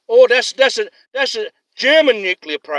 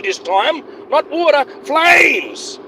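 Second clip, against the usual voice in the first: angry shout; 7 semitones higher, much slower than usual. Real, not acted. Ranting to viewers about God's fire, shouting. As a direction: bellow it like a fire-and-brimstone preacher.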